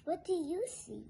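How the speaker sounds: plain reading voice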